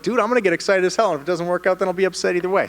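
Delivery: loud, high-pitched excited comeback; fired-up retort. Retold or imitated. Fighter answering people who won't get excited, loud and fired up.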